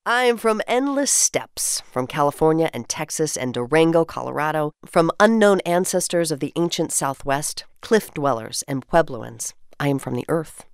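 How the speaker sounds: measured, lyrical poem recital; poem reading. Acted. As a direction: read each line like a treasured memory. Reads community poem aloud.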